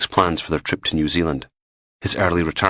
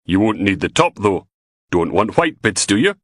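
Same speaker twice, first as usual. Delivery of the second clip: put-on louder, flirty Fife accent rising; smiling flirt; 3 semitones higher, 3 dB louder than usual. A narrator's reading. Val flirting down the phone with a smile. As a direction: tease him with a smile. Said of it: "hear the smile in her voice".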